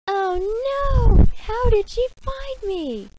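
high panicked cartoon voice. Hamtaro panics at being found.

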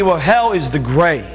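normal talking voice

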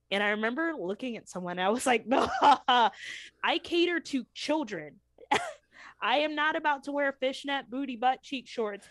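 telling it through laughter; can't help laughing at the absurdity. Real, not acted. Laughing while retelling meeting.

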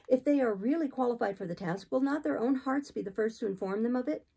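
hint of a resisting listener; questioning Jane. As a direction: challenge him gently with a question.

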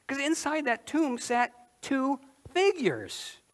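normal talking voice

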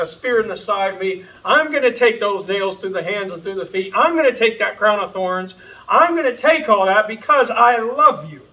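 a hint of Jesus, building from calm resolve to a loud cry; Jesus speaking. Voicing Jesus on the cross.

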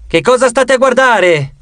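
mild yell. A narrator's reading. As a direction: call out sharply at the guards, without full volume. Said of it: "urlò Kinsey". (urlo contenuto)

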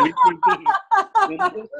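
high laughing squeak of an answer; laughing reply. Real, not acted. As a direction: laugh the words out.

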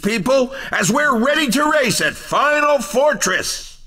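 upbeat race announcer hyping the crowd; bright announcer call, sell every venue. Acted. Race game announcer lines.

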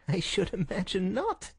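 high, mocking reply; scornful amusement. Visitor mocks the sick man's hope, scornful. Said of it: "The other laughed".

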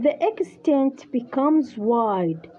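English phrase read very slowly; slow dictation. Shown as a demonstration. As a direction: dictate it word by word to the student. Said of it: "يقول". (إملاء بطيء)

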